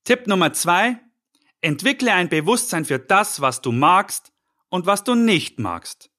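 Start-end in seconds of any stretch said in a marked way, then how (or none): 3.4-6.1 slow, both "du" leaned on firmly; slow down and weight each "du"; stress on du. Shown as a demonstration. Coach urging listener to find own likes, stress on du. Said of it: "Die Betonung liegt hier auf du".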